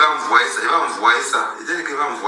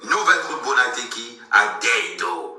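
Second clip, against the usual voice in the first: slow, drawn-out promo announcement; slow club-night plug; event announcement; 4 dB quieter, much slower than usual. Real, not acted. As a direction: stretch out the venue details like an announcer.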